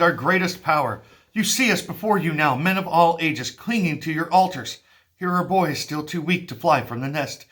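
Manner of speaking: lightly voiced priest imploring the king; old priest. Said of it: "This is the priest".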